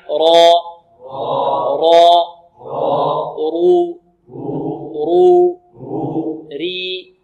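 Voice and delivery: را رو ري called out loud for the class to echo; loud drill syllables, one by one; call and repeat. Shown as a demonstration. Teacher leading students in repetition, called out. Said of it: "انطقوا معي".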